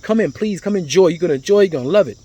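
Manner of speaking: eager welcome, starting high; retold hospitable invitation. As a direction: imitate hosts urging a guest inside. Hospitable staff invite him in.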